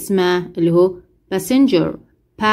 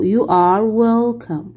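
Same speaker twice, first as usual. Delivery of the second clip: drawn-out question for the class; slow it down word by word; very slow model reading; much slower than usual. Shown as a demonstration. Teacher as flight attendant, slow model question. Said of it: "واحد بيكون هو المضيف للطيران".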